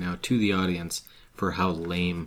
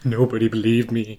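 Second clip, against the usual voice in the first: slow ominous raspy drawl; 3 semitones higher, 5 dB louder than usual. Retold or imitated. Continuing Crazy Ralph voice.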